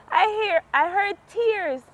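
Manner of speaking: startled high voice on hearing tears; surprised. Retold or imitated. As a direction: jump up in pitch, caught off guard. Hearing someone crying nearby.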